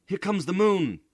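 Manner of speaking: high, loud joyful screams; children screaming. A narrator's reading. Children in hammocks scream with excitement. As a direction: shriek with delight as the rocket lifts.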